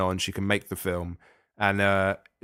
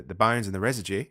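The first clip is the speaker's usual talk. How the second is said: put-on Australian accent. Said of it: "you were indulging your Australian accent there".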